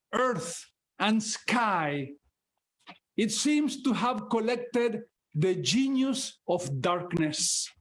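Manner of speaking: slow, solemn reading of translated verse; measured poetry reading with pauses; poem recital. Acted. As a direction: let each line hang like the dark plains. Reads English version of poem.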